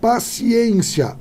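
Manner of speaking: slow stress check on "Paciência"; syllables drawn out. Shown as a demonstration. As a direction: stretch "Paciência" to land on "ci". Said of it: "paroxítona".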